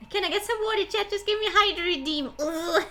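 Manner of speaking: high, loud call breaking from the reading; loud plea. Real, not acted. Streamer begs chat for a hydro redeem, loud high plea. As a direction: call out urgently to the viewers.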